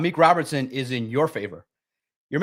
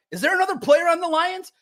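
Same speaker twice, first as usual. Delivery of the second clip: mock disbelief. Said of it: "you're like".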